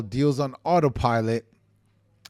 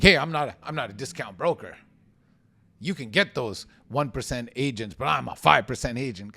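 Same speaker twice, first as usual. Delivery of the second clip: mock arrogant retort. Shown as a demonstration. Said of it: "way better way than saying".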